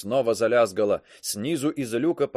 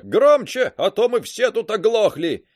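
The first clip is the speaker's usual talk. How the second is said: through a tube; 8 semitones higher, 5 dB louder than usual. A narrator's reading. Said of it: "отозвалась трубка".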